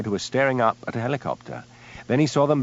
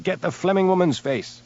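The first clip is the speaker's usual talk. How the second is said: shout; 9 semitones higher than usual. A narrator's reading. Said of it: "he shouted".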